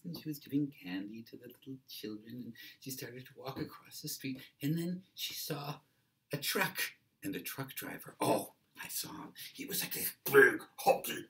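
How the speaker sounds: high-pitched, breathless eyewitness account; excited witness. Acted. Witness acts out the accident for police, overwrought and high. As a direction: build the story up toward the truck. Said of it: "one guy might say".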